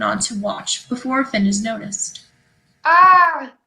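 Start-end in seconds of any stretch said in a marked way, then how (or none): 2.8-3.5 sharp higher yelp of alarm; a sudden panicked gasp; startled cry. Acted. Willow panics, spill on Watch.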